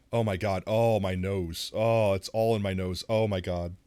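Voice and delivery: loud, startled exclamations at the sting; real loud reaction to the burn; menthol shock. Real, not acted. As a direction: caught off guard by the strong menthol. Menthol hits the nose hard.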